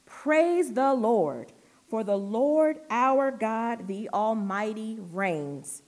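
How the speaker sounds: very slow, loud proclamation easing down at the end; vast crowd's shout. Acted. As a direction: roar the praise out grandly, stretching each word. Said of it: "the shout of a vast crowd".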